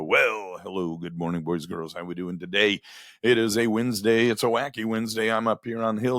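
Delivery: fast, upbeat morning radio host patter; crazy radio tempo. Retold or imitated. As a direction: hype up the callers like a wacky DJ. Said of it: "this crazy tempo thing going like I do".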